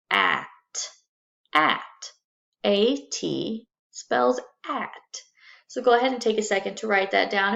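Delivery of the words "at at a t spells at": slow spelling. Shown as a demonstration. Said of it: "So we have".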